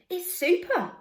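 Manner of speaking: high, loud eager exclaim; boy excited about the dark, high and loud; enthusiastic boy. A narrator's reading. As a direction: burst out with delight.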